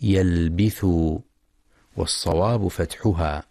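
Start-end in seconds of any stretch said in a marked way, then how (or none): 0.0-0.8 يلبث read yalbith, with an i-vowel on the ba, as the mistake; wrong kasra on ba. Shown as a demonstration. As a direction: show the error yalbith. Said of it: "بكسر الباء".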